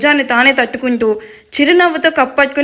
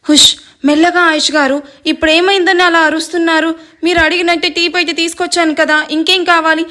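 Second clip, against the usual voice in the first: impatient hushed scolding; 4 semitones higher than usual. Acted. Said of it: "అసహనంగా అడుగుతుంది".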